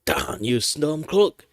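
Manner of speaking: lightly voiced thief, rising; a second try at the thief; horse thief voice. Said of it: "let's do the horse thief".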